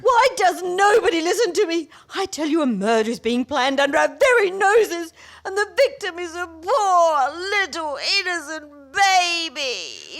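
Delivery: breathless, agitated pleading; frantic alarm. Acted. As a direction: sound the alarm, near tears. Frantic warning of a murder plot.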